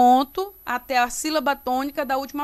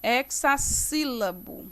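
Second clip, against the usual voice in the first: slow, measured term; 4 dB quieter, slower than usual. Shown as a demonstration. Teacher repeats term slowly.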